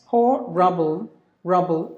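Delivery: HORRIBLE slowly as "ho, rubble"; two chunks. Shown as a demonstration. Teacher showing the short option, two-chunk pronunciation. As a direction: split HORRIBLE after the first vowel, ending "rubble". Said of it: "two syllable without this".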